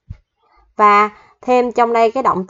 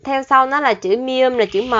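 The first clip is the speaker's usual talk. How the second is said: slow explaining; 2 semitones higher, slower than usual. Shown as a demonstration. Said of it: "có một số quy tắc, phát âm cơ bản".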